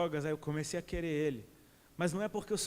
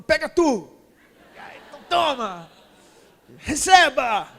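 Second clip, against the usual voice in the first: jubilant giving shout; 7 semitones higher, 12 dB louder, slower than usual. Acted. God voiced, throwing love.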